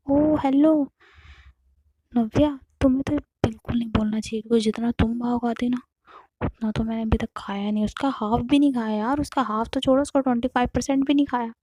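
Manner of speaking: sass her back; mock indignation. Aarti mock-scolding Navya.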